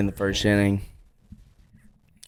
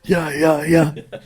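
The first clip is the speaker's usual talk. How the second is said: higher-pitched mock "yeah, yeah, yeah"; put-on, raised-pitch imitation; imitated yeahs; 6 semitones higher, much slower than usual. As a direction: act out their repeated yeahs, pitched up. Repeats the imitation for the others.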